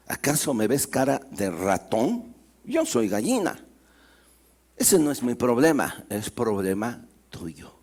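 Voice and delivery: can't be bothered, shrug it away; dismissive hen. Acted. Hen dismisses the mouse, low and offhand.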